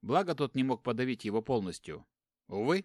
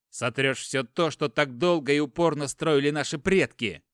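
louder, angry pleading rebuke; heated argument; 6 dB louder than usual. Acted. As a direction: press him hard, voice rising. Angry brother argues louder. (брат гневно спорит, громче)

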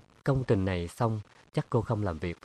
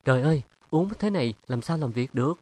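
fast, raised cry of dismay; exclaiming; 5 semitones higher, 3 dB louder, faster than usual. Acted. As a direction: blurt it out in alarm. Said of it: "Mỹ Xuyên kêu lên".

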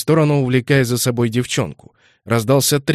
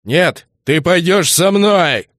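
put-on angry boyfriend; 7 semitones higher, 6 dB louder, slower than usual. A narrator's reading. Boyfriend grabs girl, demands.

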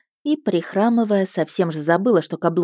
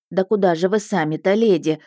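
fussing peasant woman; 2 semitones higher than usual. Acted. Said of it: "приговаривая".

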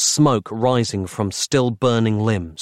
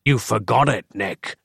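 growled. Acted. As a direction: growl it with cold menace. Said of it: "growled the dark fraction".

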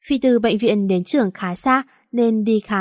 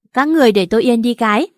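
shouting at them; 5 dB louder, faster than usual. Acted. A girl squashed between two boys yells at them to stop. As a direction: yell to make both boys stop. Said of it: "công suất của họng tôi phải kinh khủng lắm".

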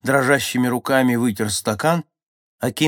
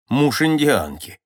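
smirking; 5 semitones higher, 5 dB louder, slower than usual. A narrator's reading. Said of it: "усмехнулся Кинг Митчелл".

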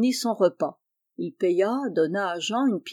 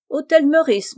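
higher and louder, helpful shopkeeper; eager calling out; 7 semitones higher, 7 dB louder than usual. Acted. Grocer directing an Englishman to his hotel, eager calling out. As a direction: call it out to a foreign customer.

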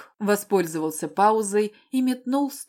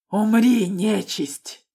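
loud raven-like cry; cawing shout; 5 dB louder, much slower than usual. A narrator's reading. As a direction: caw it out as a battle cry. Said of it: "прокричала я каркающим голосом".

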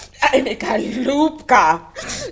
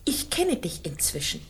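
geflüstert, leise und drohend; flüstere es ihm wie eine Warnung zu; drohendes Flüstern; 5 semitones lower, 8 dB quieter than usual. Acted. Drohende Ankündigung vor dem Gast. (Oksana flüstert ihrem Mann drohend zu)

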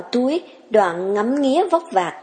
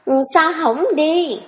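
put-on impatient girl pressing him, pitched up; lightly urging and raised; urging, higher; 6 semitones higher than usual. A narrator's reading. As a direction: hurry him along. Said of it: "Thấm lại hối".

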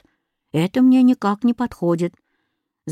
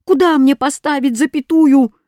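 delighted; 6 semitones higher, 6 dB louder than usual. A narrator's reading. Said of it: "обрадовался я".

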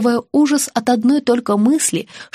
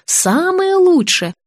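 slow, high-swooping soothing tone; reassuring; 9 semitones higher, much slower than usual. A narrator's reading. Dentist promising the best anesthetic, reassuring. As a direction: stretch it out to comfort. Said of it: "успокоила Антонина".

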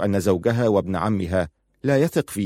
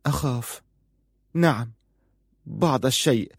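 bitter; 4 semitones higher than usual. A narrator's reading. Wife admits her fear to her husband, mildly bitter. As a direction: admit it with understated bitterness, higher. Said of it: "قالت في مرارة".

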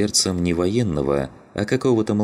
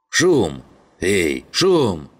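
louder, raised call across a distance; 3 semitones higher, 4 dB louder, much slower than usual. A narrator's reading. Zhigan calls out to Shum standing watch outside, loud call. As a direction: shout to someone outside in the dark.

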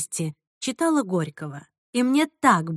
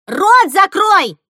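loud, slow, higher shout; angry order; 10 semitones higher, 10 dB louder, much slower than usual. A narrator's reading. Girl yelling at a shrieking cousin, angry command. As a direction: bark the order to shut up. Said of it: "приказала Настя Джессике".

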